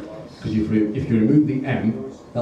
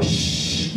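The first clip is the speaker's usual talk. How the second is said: drawn-out unvoiced shush; imitated shush to silence someone; hushing. Date hushing Jack mid-film, hushing. Date hushes him a second time.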